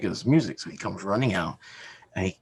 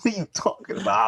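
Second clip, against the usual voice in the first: higher, stunned disbelief; baffled dad; 11 semitones higher, 4 dB louder, faster than usual. Retold or imitated. Dad reacting to his son's wrestling spoiler, stunned and higher. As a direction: ask it thrown completely off guard. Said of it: "And I'm like".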